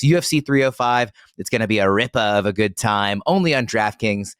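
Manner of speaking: ad read in a hammed-up Australian accent; playful Australian-accent sponsor read. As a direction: sell it like a jolly Australian bloke. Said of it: "I'll bring the accent back out".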